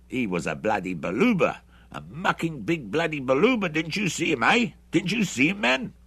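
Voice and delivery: brash soldier insisting he hit him; rough mercenary. A narrator's reading. Hendry insists to Bruce he saw the Baluba, excited.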